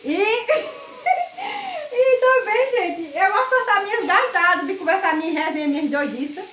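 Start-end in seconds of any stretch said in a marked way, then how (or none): 0.2-1.9 a shrill, high burst of real laughter; high squealing laugh. Real, not acted. Laughs about her own loud ways. (gargalhada aguda e esganiçada)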